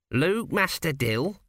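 high, slow, eager lad's voice; a plump cheerful apprentice calling out; eager young apprentice. Acted. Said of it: "plump red-faced young apprentice".

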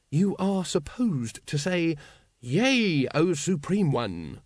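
slow, stately prompting; pointed correction. A narrator's reading. Grand Master corrects a brother's ritual answer, pointedly. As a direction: spell out the proper response with strained patience.

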